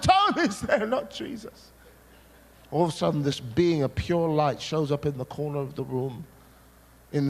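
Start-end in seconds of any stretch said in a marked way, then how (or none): 0.0-1.7 angry shout. Retold or imitated. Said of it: "And I'm shouting".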